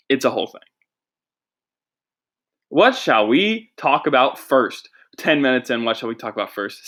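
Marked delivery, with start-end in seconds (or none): 2.7-4.9 stalling host line. Shown as a demonstration. Host demoing how to fill time, drawn-out and slow. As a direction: stretch it out like a host killing time. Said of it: "See that? That's how you fill time".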